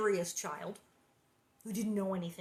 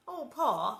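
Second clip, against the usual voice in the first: put-on higher, louder child's plea; pleading; 4 semitones higher, 6 dB louder than usual. A narrator's reading. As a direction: plead with Pa, voice raised. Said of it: "Laura pleaded".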